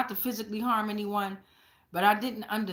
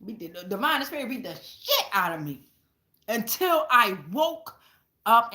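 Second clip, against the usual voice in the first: laughing. Real, not acted. Laughing while telling.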